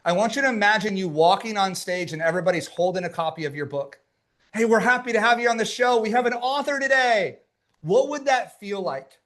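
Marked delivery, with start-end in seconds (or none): 4.5-7.4 lightly voiced, higher-pitched host greeting; show host welcome. Voicing an excited show host.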